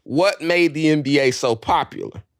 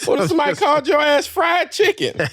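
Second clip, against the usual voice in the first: high-pitched mock outrage; animated comic protest; 12 semitones higher than usual. Real, not acted. Host jokingly objects to co-host's food names, high indignant riff. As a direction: raise the pitch way up in playful indignation.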